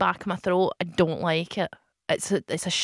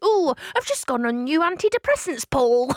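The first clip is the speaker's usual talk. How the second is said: put-on high Cockney accent; Cockney accent, played up high; 5 semitones higher, 3 dB louder than usual. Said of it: "Cockney voice to cope".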